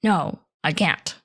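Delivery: slow, firm no, without cushioning; blunt refusal. Shown as a demonstration. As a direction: turn it down outright, no softening. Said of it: "So it's not like".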